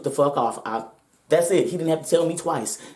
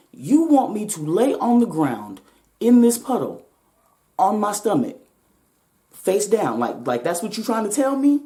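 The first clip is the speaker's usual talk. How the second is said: slowed-down, higher, disbelieving challenge; incredulous disbelief; 4 semitones higher than usual. Retold or imitated. Retelling how she questioned the officer with slow disbelief. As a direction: spell it out like it's absurd.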